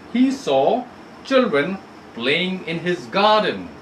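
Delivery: reading aloud to a class, slow; story reading. Shown as a demonstration. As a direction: read the story clearly to students. Teacher reads story text aloud.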